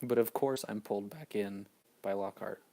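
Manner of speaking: talking while chewing; wolfing down food. Real, not acted. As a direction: mouth full of food, eating fast. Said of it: "you're gonna have some eating sounds".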